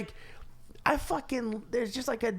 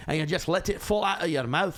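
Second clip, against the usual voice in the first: loose, throaty Scottish burr; demonstrated Scottish brogue; Scottish accent; 2 semitones higher than usual. Shown as a demonstration. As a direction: let a put-on Scottish accent tumble out. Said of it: "My Scottish is better".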